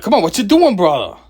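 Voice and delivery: loud, high mock Boston accent; hammed-up Boston street greeting. Shown as a demonstration. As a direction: call it out like a caricature Bostonian. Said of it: "the Bostoners have that accent".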